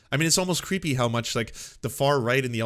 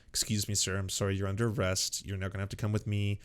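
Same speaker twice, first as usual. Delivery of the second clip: softer, mock-courteous arrest; polite police officer; 4 semitones lower, 5 dB quieter than usual. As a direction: lightly play a gentle, apologetic officer. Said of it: "very calm, very peaceful".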